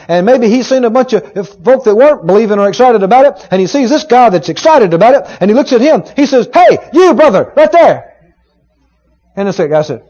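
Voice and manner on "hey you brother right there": raised voice, calling across a crowd. Retold or imitated. Preacher as Paul calling out to the crippled man. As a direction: call him out from the pulpit. Paul calls out mid-sermon.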